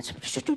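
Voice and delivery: soft, quick "tchu tchu" mumbling; imitated indistinct mumble. Wife mimics how her husband talks, mock mumbling. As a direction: mimic someone not speaking up. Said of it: "você não fala alto, você fala".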